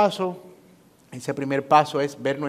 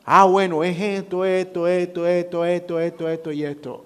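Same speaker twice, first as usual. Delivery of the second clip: wife listing complaints; 4 semitones higher than usual. Acted. Wife finally telling husband what bothers her, higher and quick. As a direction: reel them off like a fed-up wife.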